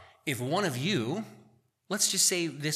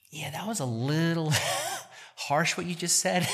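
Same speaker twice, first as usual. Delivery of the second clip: wife's gentle rebuke; 4 semitones higher than usual. Retold or imitated. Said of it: "God uses my wife oftentimes to be like".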